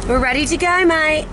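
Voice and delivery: British attempt slipping into Australian; put-on Australian accent. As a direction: say it with an accidental Aussie twang. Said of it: "Oh, that's Australian".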